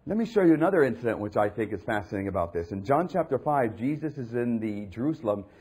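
ordinary talk

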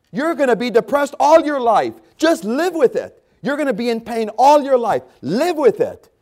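high, loud jeering giant; loud, high scornful taunt. Retold or imitated. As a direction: hammer them down like a bully. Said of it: "That's what this giant is saying to us".

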